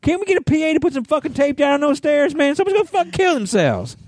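high-pitched, hammed-up angry outburst; furious rant. Man imitates his friend after falling on the guitar, furious high rant. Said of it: "and he was furious".

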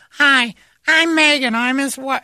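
high, slow polite intro; wife voice. Retold or imitated. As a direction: introduce yourself sweetly. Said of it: "to actually say".

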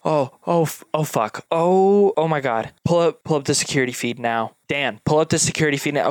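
Hope realises and barks orders quickly; panicked. Acted. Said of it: "And then she goes".

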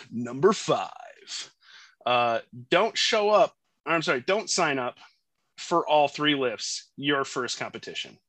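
drawn-out, booming fight announcer call. Pretend. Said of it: "We're gonna see if I can do an announcer voice".

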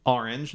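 "orange" starting with ah; New Jersey pronunciation. Shown as a demonstration. Showing co-host his Jersey accent, "orange" said AR-inj. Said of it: "I say, uh".

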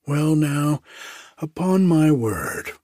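a gossip's astonished gasp of words; lightly voiced startled jailhouse cook; mock surprise. Grub man surprised by news.

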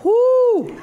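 loud high whoop from the heat; fiery woo. Real, not acted. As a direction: yelp at the burn. Reacting to hot sauce.

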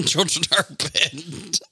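high, slow echo of the bit; mock scolding echo. Friend joining the anti-everything bit, mock scolding.

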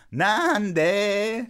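put-on very drawn-out, high kid's question; imitated curious child. Daughter chiming in on dad's practice, long high-pitched why. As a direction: chime in like a child, stretching it out.

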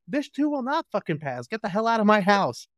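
high, furious boss yelling; mock furious Wanda Sykes; angry boss. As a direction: throw her out in a rage. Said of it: "the boss is like".

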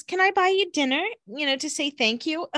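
high, sing-song flirty invitation; flirty Hazel. Retold or imitated. Hazel asking Tom out to dinner, high hammed-up flirt. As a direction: bat your lashes and ask him out. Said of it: "And Hazel says".

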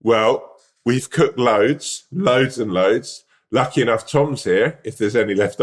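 very slow, drawn-out loads; mock host. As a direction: stretch each loads like a proud host. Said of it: "they go".

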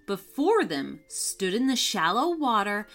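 lively bedtime-story reading voice; story narration. A narrator's reading. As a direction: tell it gently to young listeners. Storyteller reads to children.

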